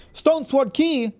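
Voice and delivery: thrilled, stretched-out reveal of the item; excited loot find. Real, not acted. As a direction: savor the prize name.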